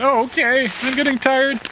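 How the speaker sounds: high, loud mouse voice, worn out; a tiny mouse running out of steam; tired little mouse. A narrator's reading. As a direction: mouse panting that he is getting tired.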